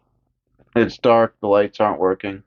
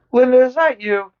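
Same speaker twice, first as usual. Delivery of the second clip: much higher, puzzled; mock Lori; 13 semitones higher, 3 dB louder than usual. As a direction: ask it like a ditzy girl. Voicing Lori on phone.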